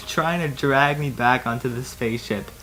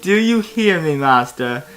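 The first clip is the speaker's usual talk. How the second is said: a hint of a stern order, raised; mildly stern Obi-Wan; 3 semitones higher, 4 dB louder than usual. Obi-Wan scolding his master, lightly stern. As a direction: press it sternly, a little louder. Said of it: "told me sternly".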